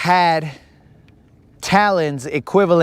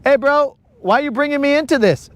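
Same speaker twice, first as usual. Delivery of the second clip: higher, fast bro protest; pretend Wi-Fi voice; 9 semitones higher, faster than usual. Imagined Wi-Fi complaining to speaker, higher fast protest. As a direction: play the Wi-Fi as a put-upon buddy, quick. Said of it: "Wi-Fi was probably like".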